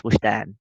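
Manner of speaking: Wishdan said slowly, the J as sh; Wishdan, with sh in the middle; name pronunciation. Shown as a demonstration. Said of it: "pronounced like sh".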